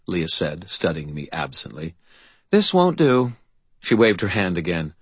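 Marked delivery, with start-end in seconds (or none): 2.5-3.3 high, slow, disdainful fey lady; fairy godmother voice. A narrator's reading. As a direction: look down your nose at him. Leah's voice.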